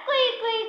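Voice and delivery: high imitated fox call; fox cry. Shown as a demonstration. Teacher repeats the fox's call for children, imitated cry. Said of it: "कसा करतो?".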